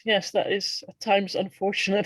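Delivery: laughing through the words; amused, laughing along; talking through real laughter. Real, not acted. Laughing about self-therapy.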